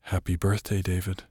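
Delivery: hushed, softly spoken birthday greeting; whisper. A narrator's reading. Elsa breaking the silence to David in the ditch, soft whisper. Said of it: "Elsa broke the silence and whispered".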